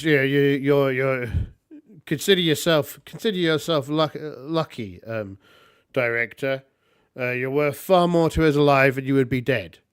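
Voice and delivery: loud, firm warning to a captured director; a firm threat, lightly voiced; stern rebel leader. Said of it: "looks at him and goes".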